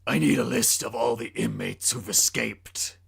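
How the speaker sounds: a hint of a dark hero's voice; Batman voice. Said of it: "said the Crusader who's caped".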